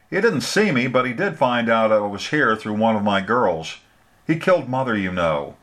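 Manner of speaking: a hint of a scornful, frightened woman; recalling the man who killed her mother, bitterly; bitter older woman. Frances voiced, bitter memories.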